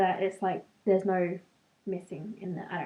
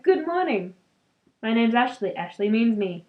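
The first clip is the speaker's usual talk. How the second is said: playful grand intro. Pretend. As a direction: introduce yourself like a wizard, tongue in cheek.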